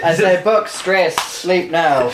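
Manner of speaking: slow, broken orc grunt-speech; a hint of a dim orc; dumb orc voice. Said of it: "In typical orc fashion".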